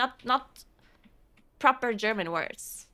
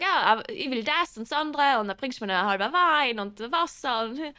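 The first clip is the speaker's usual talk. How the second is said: German dialect. Retold or imitated. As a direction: order casually in local German dialect. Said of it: "you can just speak German dialect to him".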